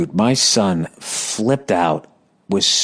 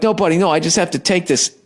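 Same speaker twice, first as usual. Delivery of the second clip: pleading dad; 8 semitones higher, faster than usual. Retold or imitated. Acts himself pleading with toddler.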